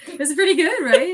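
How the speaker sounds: laughing high and loud. Real, not acted. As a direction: giggle through the question.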